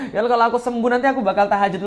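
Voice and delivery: quick prayer through a laugh; mock threatening prayer. Preacher mocking a haggling prayer, fast with a laugh. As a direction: poke fun at a haggling plea, fast. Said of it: "minta kok ngancem".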